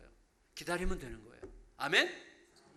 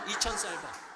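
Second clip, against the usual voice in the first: laughing. Retold or imitated.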